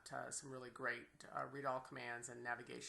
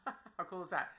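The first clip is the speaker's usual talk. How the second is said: delighted laugh; 5 semitones higher, 4 dB louder than usual. Real, not acted. Delighted at the feature.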